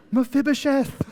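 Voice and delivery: high, loud exclamation of a name; yelled name. Acted. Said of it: "I think he was yelling".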